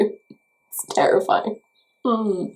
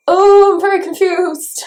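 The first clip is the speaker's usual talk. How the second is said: mock confusion; 8 semitones higher, 5 dB louder than usual. Mock panic continues.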